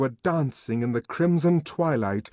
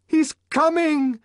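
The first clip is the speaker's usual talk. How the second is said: high-pitched ecstatic call; frenzied high cry; excited shout; 4 dB louder than usual. A narrator's reading. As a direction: shout it high, as if seeing a saviour. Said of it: "shouted Sarojini Engels".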